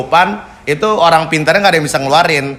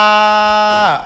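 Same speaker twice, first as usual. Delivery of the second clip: high, drawn-out mock yell; retold yell; 7 semitones higher than usual. Patient retelling his cry as his belly is pressed, high mock yell. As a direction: imitate your own pained yell, held long. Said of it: "Saya teriak".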